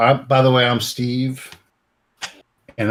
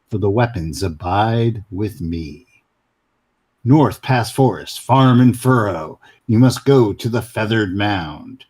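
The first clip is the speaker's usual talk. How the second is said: reading a riddle. Shown as a demonstration. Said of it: "I'll do it".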